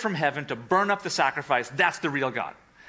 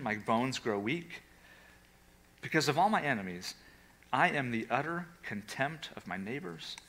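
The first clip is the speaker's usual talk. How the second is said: sorrowful lament; 3 semitones lower, 4 dB quieter than usual. Acted. Reading David's lament psalm.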